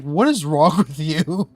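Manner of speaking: incredulous challenge, slowed for emphasis; exasperated. Retold or imitated. Streamer retelling his reaction to a rude player, exasperated.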